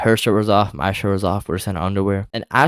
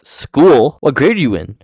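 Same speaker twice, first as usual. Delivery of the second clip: imitated disbelief, higher and louder; surprised question; 4 semitones higher, 6 dB louder, slower than usual. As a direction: echo it back as a startled question. Acted surprise at hearing of school.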